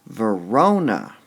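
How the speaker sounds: Verona said slowly with a heavy first syllable; VEH-rona, stress misplaced on the start; wrong stress on Verona. Shown as a demonstration. Teacher tries the wrong stress on Verona. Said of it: "How would we say that?".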